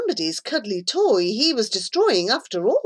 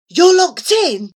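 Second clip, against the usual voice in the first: shocked; 9 semitones higher, 7 dB louder than usual. A narrator's reading. Friend realizes boy trapped.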